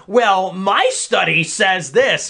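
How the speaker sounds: slow, pedantic nerd imitation; lightly mock a study-quoting nerd; mock virgin debater. Debate nerd citing a study, mock pedantic. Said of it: "You know, the Virgin".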